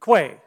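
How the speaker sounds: "Quay" said as kway; surname pronunciation. Shown as a demonstration. Guest preacher repeating part of his surname, "Quay" pronounced kway. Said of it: "my last name is pronounced".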